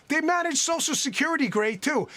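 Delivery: dry mock praise; sarcastic. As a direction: say it with heavy sarcasm. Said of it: "of course, I'm being sarcastic".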